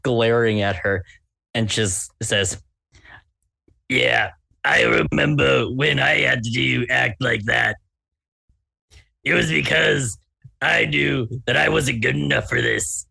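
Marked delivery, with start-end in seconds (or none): 3.9-13.1 raspy smoker's voice; chain smoker voice. Acted. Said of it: "She talks in her, like, kinda chain smoker voice".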